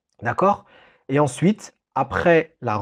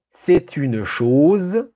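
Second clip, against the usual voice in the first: dictating slowly; 3 dB louder, much slower than usual. Shown as a demonstration. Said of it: "Je répète cette phrase".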